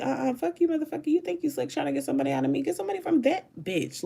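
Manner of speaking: high, fast sassy comeback in a mocking voice; mock sassy retort. Imitating Friday's friend snapping back, high sassy retort. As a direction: fire it back high and quick, all attitude. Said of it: "she was like".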